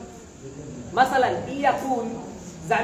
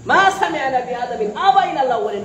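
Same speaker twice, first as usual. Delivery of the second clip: said out louder for students to copy; firm demo line; 3 semitones higher, 6 dB louder than usual. Shown as a demonstration. Teacher models the reply for students, firmly. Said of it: "قل هذا".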